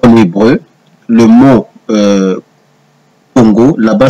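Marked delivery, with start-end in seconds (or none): none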